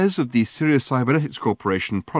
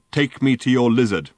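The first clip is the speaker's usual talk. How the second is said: robot; 2 semitones higher, 4 dB louder than usual. Acted. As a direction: intone it like a huge machine. Giant robot speaks.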